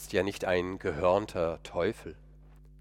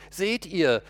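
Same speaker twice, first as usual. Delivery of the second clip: gloating enemies; 8 semitones higher, 6 dB louder than usual. Retold or imitated. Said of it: "werden sie sagen".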